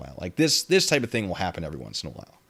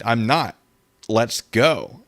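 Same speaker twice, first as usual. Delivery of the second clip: ordinary talk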